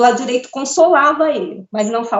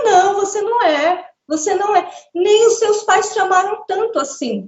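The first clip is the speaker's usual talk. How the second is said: higher, accusing retort; mimicking the accusing presence on the left; accusatory tone; 6 semitones higher than usual. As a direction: throw the accusation back at her. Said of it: "Num tom, assim, muito acusador".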